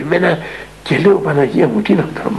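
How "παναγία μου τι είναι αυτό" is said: a startled cry caught in the throat; shaken exclamation. Retold or imitated. Elder, shaken by the refusal, gasps a startled cry. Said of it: "ταράχτηκα".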